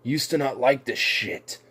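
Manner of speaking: mock betrayed yell; imagined friend's outrage. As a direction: play the shocked, accusing buddy. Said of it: "It's like".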